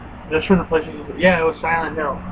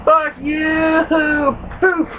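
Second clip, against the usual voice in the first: angry yell; 10 semitones higher, much slower than usual. Retold or imitated. Gamer yelling at the enemy jumping out at him. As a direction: shout it as you blast the enemy.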